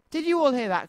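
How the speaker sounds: high-pitched exclaimed question; a touch of excited outcry; cried out. A narrator's reading. Rabbit to everyone after Tigger's promise, high excited cry. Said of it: "cried Rabbit".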